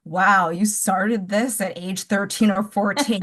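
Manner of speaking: slow, dry sarcastic wow; fake-impressed, dripping with sarcasm; sarcastic mock awe. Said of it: "people who hated the book will be like".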